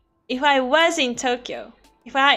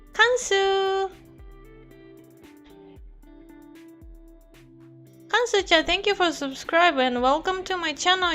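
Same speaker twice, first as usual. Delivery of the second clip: excited anime fan; 7 semitones higher than usual. Acted. Fan greeting a subscriber, anime style.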